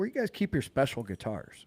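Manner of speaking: put-on heavy English accent laid on thick, swooping pitch. Retelling a customer's question to him at Guitar Center, thick English accent. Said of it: "And he had a thick English accent".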